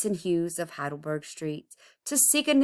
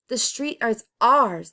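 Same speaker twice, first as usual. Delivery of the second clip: loud, firm claim; defiant; 5 semitones higher, 6 dB louder than usual. A narrator's reading. Neighbors defy the city, loud and firm. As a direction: stand your ground. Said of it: "they said".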